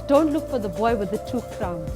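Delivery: ordinary talk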